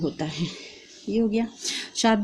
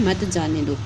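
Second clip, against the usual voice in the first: "मत जाने दो" as one group; comma before मत; 2 semitones lower than usual. Shown as a demonstration. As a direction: run मत straight into जाने दो. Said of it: "यहाँ पे कॉमा लगाना है".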